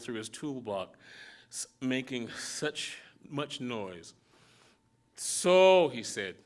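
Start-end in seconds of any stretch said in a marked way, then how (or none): 5.1-5.9 a hint of an irritable elder; mildly impatient old mechanic; little father orders Elihu about the wrench, lightly gruff; lightly voiced gruff old man.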